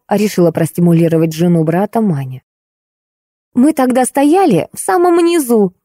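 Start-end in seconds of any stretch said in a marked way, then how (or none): 3.5-5.7 angry. Acted. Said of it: "злилась Ольга".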